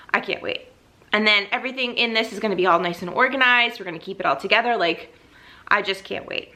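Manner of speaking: out of breath while talking. Real, not acted. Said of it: "sorry if I'm out of breath".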